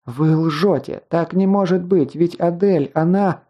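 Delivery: high, distraught protest; choked by tears. A narrator's reading. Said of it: "Слёзы душили её, ком, подступивший к горлу".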